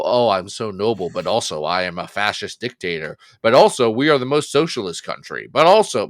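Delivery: a hint of a self-important tyrant; mock noble villain voice. Mocking Doom's fans while ranting about the character, a lightly voiced pompous tyrant. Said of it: "you're just mad that your wooby little".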